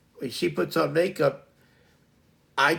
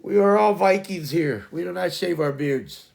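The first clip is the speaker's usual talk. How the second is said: loud, higher-pitched playful proclamation; hammed-up decree; mock-solemn declaration; 4 semitones higher, 5 dB louder than usual. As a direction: proclaim it like a proud Viking, in jest.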